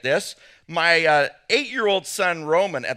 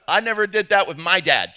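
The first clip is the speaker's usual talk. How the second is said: doctor's shout; 6 dB louder than usual. Retold or imitated. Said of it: "he had that sort of".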